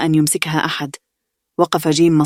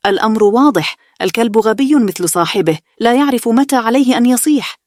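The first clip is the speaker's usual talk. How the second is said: amused jeer; 6 semitones higher, 3 dB louder than usual. A narrator's reading. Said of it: "وهو يضحك".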